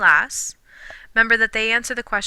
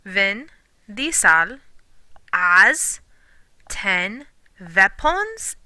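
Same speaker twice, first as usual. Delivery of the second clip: mock Vin Diesel mnemonic; much slower than usual. Shown as a demonstration. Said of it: "That might be helpful, or it just might be silly".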